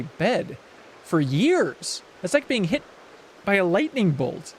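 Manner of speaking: swooping pitch, drawn-out key words; milk the tale of being struck; theatrical, aggrieved storyteller; dramatic villager. Acted. Voices villager recounting being shocked.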